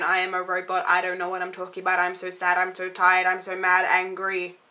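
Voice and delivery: mocking the male Inquisitor's dull robotic delivery; robotic monotone. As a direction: drone it out like an unfeeling robot. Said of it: "It's, like, monotone".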